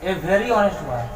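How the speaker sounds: put-on every word of I am a boy read very slowly; teacher reading the English example slowly; slow model reading. Shown as a demonstration. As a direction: read it out slowly for the class to copy. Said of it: "आया ना".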